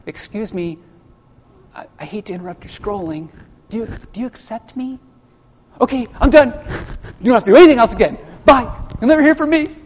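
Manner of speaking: timid, hesitant pleading, then rising up in pitch and loudness; a sheepish salesman-Jesus begging for a click; meek apologetic Jesus. Retold or imitated. Preacher mocking a timid Jesus who interrupts scrolling, apologetic. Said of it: "This is not the Jesus that says".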